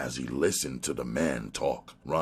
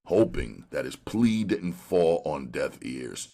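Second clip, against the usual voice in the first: usual speaking voice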